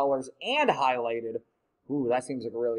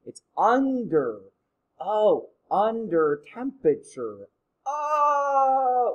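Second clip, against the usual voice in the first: realizing; 2 semitones higher, 4 dB louder, much slower than usual. Retold or imitated. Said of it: "I'm like".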